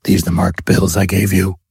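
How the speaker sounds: croaking Batman rasp; croaked. Acted. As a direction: Batman questioning Gordon over the bills in a croak. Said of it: "and croaked".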